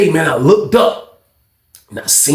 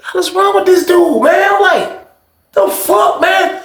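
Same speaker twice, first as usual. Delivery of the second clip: exasperated shout; slower than usual. Retold or imitated. Narrator's exasperated outburst.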